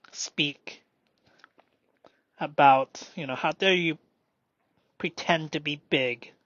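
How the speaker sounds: inner critic voice. Pretend. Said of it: "that's self-consciousness".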